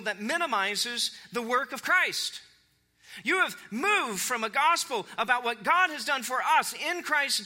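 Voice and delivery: high-pitched, urgent rebuke; fired up. Acted. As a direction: press the charge as an impassioned Paul. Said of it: "he is fired up".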